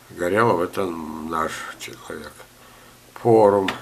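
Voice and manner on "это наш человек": slow confiding whisper. Real, not acted. Old gardener tells viewers a fellow enthusiast is "our man", in a slow whisper. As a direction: lean in and whisper it like a secret.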